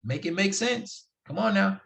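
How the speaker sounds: high, slow, incredulous plea; exasperated disbelief. Real, not acted. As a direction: drag it out in mock bafflement. Exasperated at fake real-man talk.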